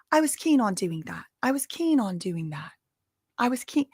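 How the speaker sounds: a rough attempt at a British accent on "keen"; "keen" in a put-on British accent, practising it; mock British accent. Host practises the assistant's "keen" in a British accent. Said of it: "I gotta get in my Hermione Granger".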